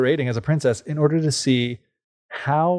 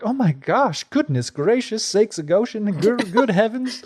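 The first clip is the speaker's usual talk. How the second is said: put-on much higher, old-fashioned shocked exclamations; horrified mother; 9 semitones higher than usual. Mother shrieking at the toads, much higher. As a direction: clutch your pearls in horror. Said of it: "the mother's like".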